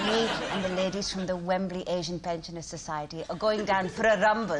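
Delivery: lightly voiced elderly auntie, teasing; a hint of an old lady gossiping; old pensioner lady. Comedian playing elderly Asian pensioner.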